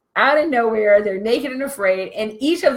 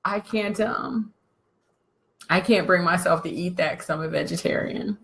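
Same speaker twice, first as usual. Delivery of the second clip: weak mock whine; 4 semitones lower, 8 dB quieter than usual. Weak man retold, quiet.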